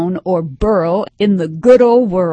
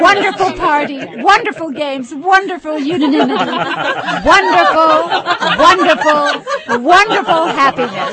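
higher, louder, laughing wonder; delighted party praise; rapturous; 7 semitones higher, 5 dB louder than usual. A narrator's reading. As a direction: savour each wonderful.

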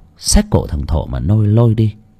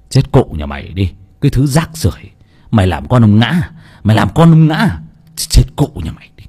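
enraged cursing. Acted. Ông chủ vừa đánh vừa chửi.

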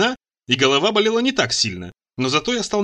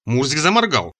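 plain reading voice

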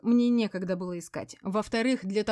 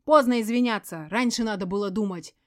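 unforgiving; 2 semitones higher, 9 dB louder than usual. A narrator's reading. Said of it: "не простила его ... Вероника".

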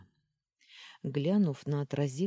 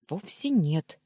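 snapping; 4 semitones higher, 6 dB louder, slower than usual. Acted. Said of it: "огрызнулась я".

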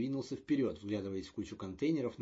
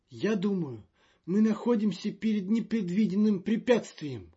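firm; 9 semitones higher, 7 dB louder than usual. A narrator's reading. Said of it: "твёрдо сказал он".

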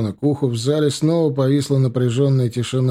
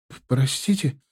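timid, stammered apology; flustered; 3 dB quieter than usual. A narrator's reading. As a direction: stumble on the first sound, at a loss. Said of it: "совсем растерялась девушка". (растерянно, с запинкой)

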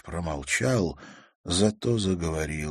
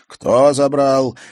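loud, high, slow demand; sharp demand; 8 semitones higher, 12 dB louder, slower than usual. A narrator's reading. The countess presses the impostor, loud demand. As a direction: demand an answer at once.

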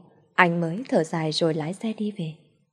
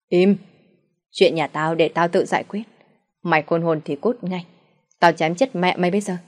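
threatening father. Acted.

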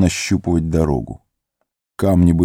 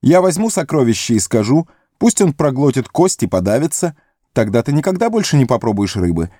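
threatening; 6 semitones higher than usual. Acted. Фродо угрожает Горлуму.

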